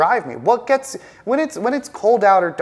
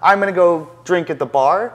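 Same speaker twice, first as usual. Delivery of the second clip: retold frustrated outburst, a bit louder; mock furious rant; 4 dB louder than usual. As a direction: act out a pissed-off trader venting after a loss. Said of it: "I'm furious, I'm slamming my desk".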